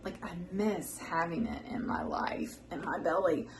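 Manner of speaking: whispering, missing granny's cooking; wistful whisper. Real, not acted. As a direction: breathe it out softly with longing.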